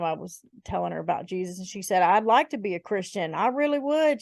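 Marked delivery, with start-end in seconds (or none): 2.0-4.2 lightly voiced girl, pitch climbing; girl's voice. Girl answering talk about Jesus, lightly imitated. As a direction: lift the pitch gradually to quote her. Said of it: "a girl ask me one time".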